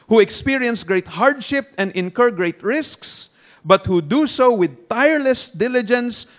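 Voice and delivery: slow, forceful sermon reading; emphatic reading. Acted. Preacher quoting commentary on seeking wisdom like silver, emphatic reading. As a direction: read it out firmly, weighting each phrase. Reads commentary aloud to congregation.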